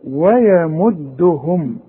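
ويمدهم very slow with light و and ي; slow thin recitation. Shown as a demonstration. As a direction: draw out ويمدهم thinly. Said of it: "طلعها مضمومة".

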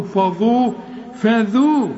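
فذو repeated with thin vowels; light fa, dhal. Shown as a demonstration. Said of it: "رقق قوي". (فذو مرققة)

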